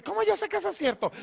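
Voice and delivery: high, fast, startled question; Zacarías panicking before the angel; frightened Zacarías. Acted. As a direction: blurt it out in a scared rush. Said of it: "Zacarías se asusta".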